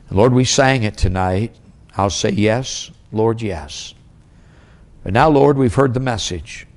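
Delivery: earnest pastoral prayer, pleading lines pushed out then eased back; closing prayer. Acted. Pastor praying over husbands and wives in church, earnest and pleading. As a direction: pray over the congregation with steady earnest weight.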